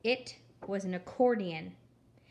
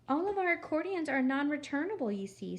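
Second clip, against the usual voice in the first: sugary, slightly higher refusal; too sweet voice; 6 semitones higher than usual. Acted. Gladys refusing Eugenia's return, too sweet. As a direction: decline politely but far too sweetly. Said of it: "in her too sweet voice".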